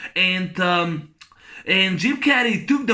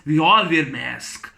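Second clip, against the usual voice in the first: quoting the doctor; 3 semitones lower than usual. Retold or imitated. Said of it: "when he says".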